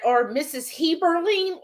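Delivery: high-pitched guess at a name; imitated hotel announcer. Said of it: "And then they said".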